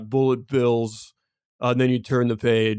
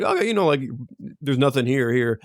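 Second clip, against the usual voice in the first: sing-song server leaving the toy; lightly voiced waitress; faster than usual.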